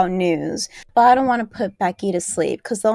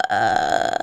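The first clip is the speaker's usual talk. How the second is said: low drawn-out creaky "uh"; mocking sentence ending. Co-host mocking how she ends every sentence, creaky. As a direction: mimic a creaky trailing "uh". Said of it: "you have to go".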